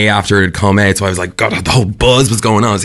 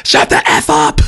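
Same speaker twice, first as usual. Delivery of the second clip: retold shout.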